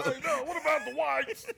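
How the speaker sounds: high put-on voice. Same intruder voice.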